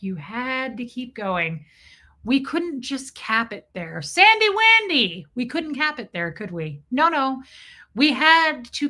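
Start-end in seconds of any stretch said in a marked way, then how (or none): 4.0-5.3 loud, high call to a viewer. Real, not acted. Calling a chat member by name, loud and high. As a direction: call her name out across the room.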